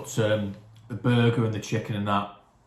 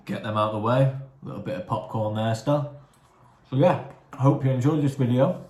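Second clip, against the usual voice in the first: mouth full; 2 semitones higher than usual. Real, not acted. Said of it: "Talking with my mouth full again".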